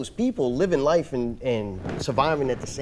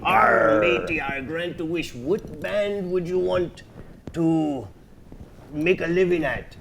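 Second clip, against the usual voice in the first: pirate voice; 4 dB quieter than usual. Pretend. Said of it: "we talk like a pirate for some reason".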